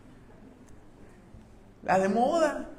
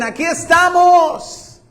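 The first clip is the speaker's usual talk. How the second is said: we stayed; 11 semitones higher, 9 dB louder, much slower than usual. Acted. Prisoners tell the jailer they stayed.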